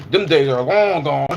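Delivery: slow, laughing lament; rueful slow laugh. Real, not acted. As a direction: chuckle through it, slowly. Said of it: "laughing about his age".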